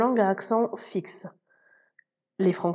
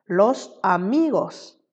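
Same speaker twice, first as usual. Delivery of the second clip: "amigos" slowly, with MI stressed, a-MI-gos; stress on next-to-last syllable; slower than usual. Shown as a demonstration. Spanish teacher giving learners an example, MI stressed in "amigos". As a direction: draw out the MI in "amigos". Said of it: "l'accent tonique tombe sur l'avant-dernière syllabe".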